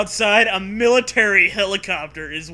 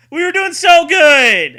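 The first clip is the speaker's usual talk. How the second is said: high, loud disbelieving wail; exasperated outcry; 11 semitones higher, 13 dB louder than usual. Real, not acted. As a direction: cry out at the crash. Frustrated at failed ending.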